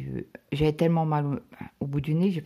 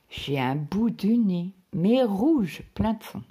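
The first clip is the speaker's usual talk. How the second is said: emphatic dismay; 5 semitones higher, 5 dB louder, slower than usual. Real, not acted. Describing her swollen red nose.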